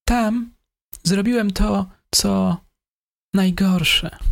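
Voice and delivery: a mild sigh through a halting confession; sighing killer. A narrator's reading. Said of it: "westchnął zabójca".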